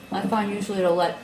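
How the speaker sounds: talking through a mouthful of cheese; mouth full. Real, not acted. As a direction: speak around a bite of cheese. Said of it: "speaking with cheese in my mouth".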